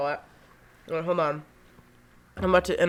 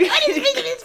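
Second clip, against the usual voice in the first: very high laughing snooty voice; snooty girl voice; slower than usual. Retold or imitated. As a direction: squeal it like a snob. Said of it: "Some bitches will be like".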